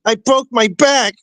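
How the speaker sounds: a hint of a slow, dead-serious Tyson; serious Mike. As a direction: say it slow and deadpan. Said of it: "Mike was so serious when he was like".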